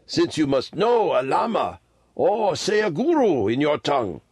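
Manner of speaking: put-on high-pitched old Tibetan lama; old lama, patient. A narrator's reading. Old lama telling boys who he is, high voice. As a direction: explain in a high old man's voice.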